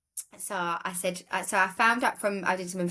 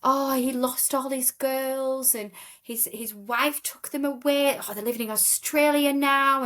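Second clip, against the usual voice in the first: Polish lady gushing; 6 semitones higher than usual. Retold or imitated. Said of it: "she's like".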